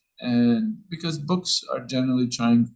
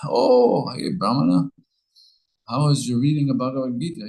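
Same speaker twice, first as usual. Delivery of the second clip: mocking; 4 semitones higher, 4 dB louder than usual. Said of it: "everybody would make fun of him".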